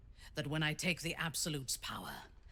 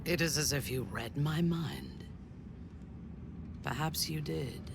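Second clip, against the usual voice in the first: intimate whisper. Acted. Drow to her companion, intimate whisper. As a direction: whisper it close and knowing.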